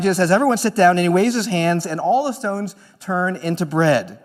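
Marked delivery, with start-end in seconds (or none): 0.3-0.9 louder call to the whole crowd. Acted. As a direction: call everyone to sit down. Jesus calls the crowd to sit.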